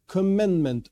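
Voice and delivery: "commandment" repeated with firm stress, falling. Real, not acted. Teacher singling out the key word for the class, stressing "commandment". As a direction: set "commandment" apart and lean on it. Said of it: "I stress this word".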